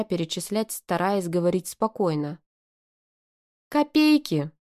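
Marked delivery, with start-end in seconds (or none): 3.7-4.5 very high indignant shriek. A narrator's reading. Arina dismissing the money, shrieking. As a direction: squeal it out in outrage. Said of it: "взвизгнула Арина".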